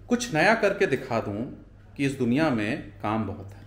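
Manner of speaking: measured recital of verse, key words lifted; poetry recital. Acted. Vlogger giving viewers a sample of his poetry, lightly recited. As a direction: recite it line by line with pauses.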